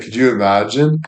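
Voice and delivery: ordinary talk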